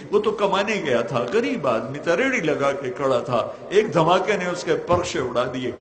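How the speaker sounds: pleading, rising and falling prayer chant; fervent Urdu dua; impassioned prayer. Acted. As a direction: plead with God in a preacher's cadence.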